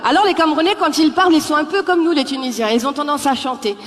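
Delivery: normal talking voice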